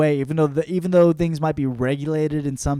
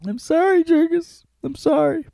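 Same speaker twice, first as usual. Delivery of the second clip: much higher, falsetto wife apology; mock wife voice. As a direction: say it in a high put-on woman's voice.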